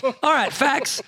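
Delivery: high mock imitation of Neil saying facts; imitating Neil. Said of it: "Neil, fact, fact".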